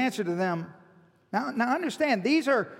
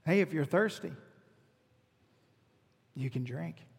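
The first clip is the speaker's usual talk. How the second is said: hushed, low voice, fading softer at the end; gentle invitation; 8 semitones lower, 9 dB quieter than usual. Retold or imitated. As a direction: offer it very softly, as if to one person. Gentle offer to hostile listeners.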